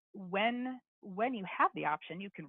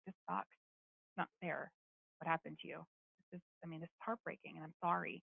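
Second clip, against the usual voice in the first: gentle empathy; 4 dB quieter than usual. Shown as a demonstration. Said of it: "Sometimes it's acknowledging".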